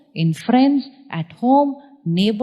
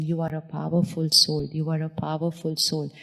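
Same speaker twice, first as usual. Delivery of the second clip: softer, fading mantra; repeated softly; 2 semitones lower, 7 dB quieter than usual. Shown as a demonstration. Teacher repeating the mantra to the audience, fading softer. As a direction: let the words sink quieter each time. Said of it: "Just keep saying".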